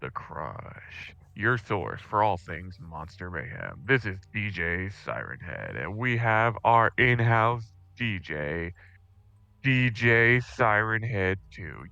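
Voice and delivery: slow, showy radio host intro. Acted. Player opening the prank radio show, hammed-up DJ. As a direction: ham up the station welcome.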